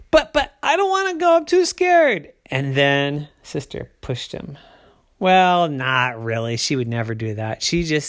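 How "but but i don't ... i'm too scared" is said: put-on high, fast frightened kid; a high little boy pleading, scared; scared whine. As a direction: plead out of fear. Ryder refuses the slide.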